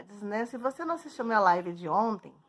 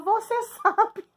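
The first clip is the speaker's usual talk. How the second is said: slow, higher sulky "você sabe" with a laugh; sulky accusing; 10 semitones higher, 5 dB louder, slower than usual. Retold or imitated. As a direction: draw it out like a wounded girlfriend. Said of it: "Eu falava". (resposta emburrada e lenta, meio rindo)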